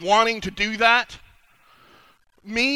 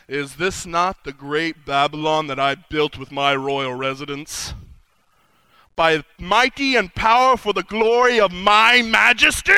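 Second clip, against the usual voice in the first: proud king; 4 semitones lower, slower than usual. Acted. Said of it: "he said".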